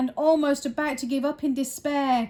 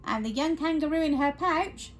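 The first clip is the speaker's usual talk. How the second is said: lightly voiced kangaroo, slightly raised; character voice by mistake; 3 semitones higher than usual. Shown as a demonstration. Reader narrating in wrong voice, light kangaroo character. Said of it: "wrong voice".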